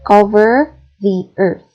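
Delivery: one smooth breath, hit cover; stress on cover. Shown as a demonstration. Teacher giving another example, stress on cover. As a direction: COVER stressed, the earth blended after it.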